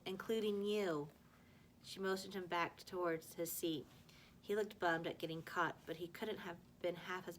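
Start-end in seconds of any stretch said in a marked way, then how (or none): 0.1-1.1 slow, pointed put-down; cutting remark. A narrator's reading. Teacher slowly puts down the boastful student, pointed. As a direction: lean on it slowly to cut him down. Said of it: "she said harmfully".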